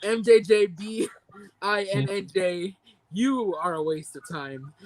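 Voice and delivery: slow, deliberate verdict; measured, emphatic contempt; pissed-off rant. Real, not acted. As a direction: spell out each letter, then condemn slowly. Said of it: "I'm gonna end this rant".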